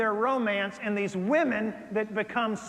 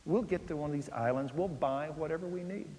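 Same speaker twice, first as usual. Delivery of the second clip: reassuring; 3 semitones lower, 3 dB quieter than usual. Retold or imitated. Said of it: "I said".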